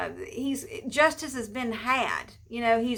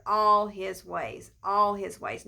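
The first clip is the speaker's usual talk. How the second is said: "all" drawn out for emphasis; stress on ALL; 3 semitones lower, slower than usual. Real, not acted. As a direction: lean slowly on the word "all". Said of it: "I want to emphasize that word".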